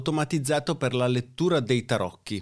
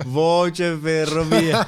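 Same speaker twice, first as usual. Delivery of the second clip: robot voice; 4 semitones higher, 5 dB louder, much slower than usual. Pretend. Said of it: "con la voce, robotica della, delle ferrovie dello Stato".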